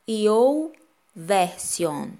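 "Y O U Version" lido à brasileira, letras em português; português abrasileirado. Shown as a demonstration. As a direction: diga "Y O U Version" com sotaque brasileiro. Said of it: "Vou ler no português abrasileirado". (pronúncia abrasileirada)

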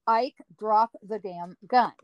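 slow, harder second warning; sterner command. Retold or imitated. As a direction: warn him one last time. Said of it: "Second time".

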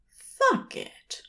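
a high, sudden slip of a curse; blurted Aziraphale. A narrator's reading. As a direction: let it escape before you can stop it. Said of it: "he said, without meaning to".

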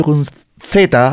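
Z said the Spanish way, as a lisped th; Castilian Z. Retold or imitated. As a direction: put the tongue between the teeth on "Z". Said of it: "lo decía correctamente".

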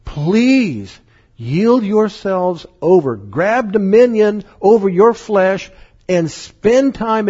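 slow, pleading entreaty; begging. Retold or imitated. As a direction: draw it out gently, like a father begging. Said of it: "God is begging us".

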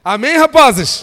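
very loud, lifted amen call; rallying shout. Real, not acted. Preacher wants a firm amen from lads, rallying shout. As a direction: holler for the crowd's answer.

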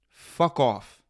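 sudden loud fuck off, fed up; loud exasperated dismissal; annoyed shout. Real, not acted. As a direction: bark it out in disgust. Venting at a celebrity.

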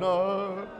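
drawn-out pretend wail; badly faked whimper on one long vowel; mock crying. Shown as a demonstration. Preacher shows the rejects how to cry, mock wail. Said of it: "y'all just cry a little bit".

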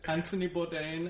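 put-on name said in a French accent; lightly hammed French tourist accent; mock French accent. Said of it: "it's the one accent we can do".

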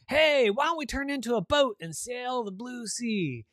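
high, eager playmate voice; talking bed. Acted. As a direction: pitch up an inviting call to play. Bed proposes a game.

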